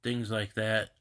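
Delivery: stuffy nose; blocked nose, morning voice; congested. Real, not acted. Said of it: "I know I sound a little congested".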